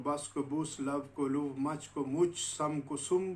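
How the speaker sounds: Geordie accent, बुस, लुव, मुच, सुम with a short u like put; Geordie vowels. Shown as a demonstration. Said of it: "जॉर्डी से related accent है".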